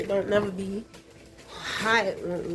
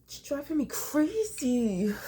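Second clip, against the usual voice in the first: crying; 5 semitones higher than usual. Real, not acted. Upset vlogger breaking down, crying. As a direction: voice breaking into a cry, higher.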